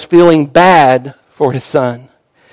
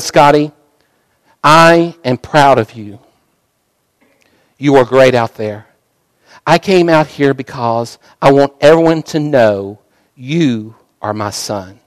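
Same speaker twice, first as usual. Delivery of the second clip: soft, lower, gentle father's voice; tender fatherly comfort; 4 semitones lower, 3 dB quieter than usual. Acted. Father to his crying son, gently softly tender. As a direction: hold him close and speak softly.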